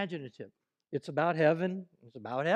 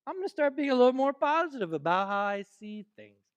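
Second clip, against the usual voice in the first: much higher, hopeful; mock cheerful self-talk; upbeat resolve; 7 semitones higher than usual. Shown as a demonstration. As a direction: speak like you just chose to be positive. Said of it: "You say".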